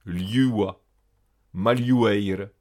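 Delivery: "Liua" and "maliueire" with L run into Y; palatal L. Shown as a demonstration. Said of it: "L H, un lieu mouillé". (« Liua », « maliueire » avec L mouillé)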